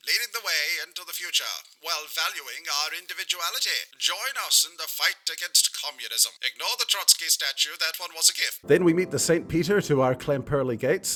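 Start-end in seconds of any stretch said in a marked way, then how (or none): 0.1-8.6 put-on old-timey radio announcer. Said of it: "read in an old-timey radio announcer voice".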